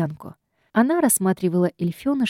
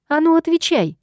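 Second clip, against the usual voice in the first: much higher, louder command; pressing demand; 8 semitones higher, 3 dB louder than usual. A narrator's reading. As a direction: push her hard to answer. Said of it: "дожимала я".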